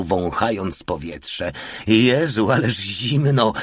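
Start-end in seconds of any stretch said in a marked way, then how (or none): 1.9-3.5 higher, slow complaint about the cold; lightly acted shivering exclamation; teeth chattering. A narrator's reading. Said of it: "powiedział, szczękając zębami". (lekko zagrane szczękanie zębami z zimna)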